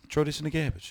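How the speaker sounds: put-on "garbage" with a short flat a, no r; garbled garbage. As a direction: say "garbage" as GAB-idge, dropping the r. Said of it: "So I started saying".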